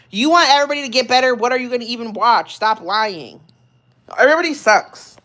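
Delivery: worked-up, rapid-fire challenge; getting mad. Real, not acted. Streamer challenges viewers on what they'd watch, getting mad. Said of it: "I'm getting mad".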